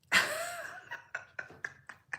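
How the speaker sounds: a very high, breathy laugh that climbs; real amused laugh rising up in pitch. Real, not acted. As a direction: laugh in disbelief, high and airy. Laughs at chat's reaction.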